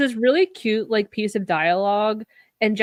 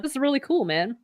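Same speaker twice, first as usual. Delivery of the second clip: lightly mimicked geeky awe, starting higher; imitating nerdy excitement; 6 semitones higher than usual. Podcaster imitating Daniel nerding out over radio signals, mild geeky awe. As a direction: geek out a little, voice lifting then dropping. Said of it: "I just love how, like, nerd out he was".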